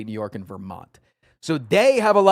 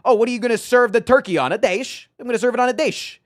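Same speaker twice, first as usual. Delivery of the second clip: higher, louder, fast mock northern voice, "dish" said as "dash"; mock northern accent; 9 semitones higher, 5 dB louder, faster than usual. Mocking her own northern accent for a friend, hammed-up. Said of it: "it's like saying".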